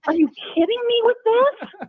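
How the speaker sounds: high-pitched outraged disbelief; exasperated disbelief. Retold or imitated. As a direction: throw the question at the coaches in disbelief. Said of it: "I'm just going".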